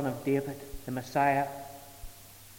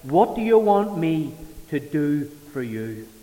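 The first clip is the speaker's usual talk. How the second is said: slow, louder, gently asking; voicing Jesus; 6 dB louder, slower than usual. Jesus asking the blind man what he wants, slow and deliberate. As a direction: let the question sit, unhurried. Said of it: "he asked, uh, Bartimaeus".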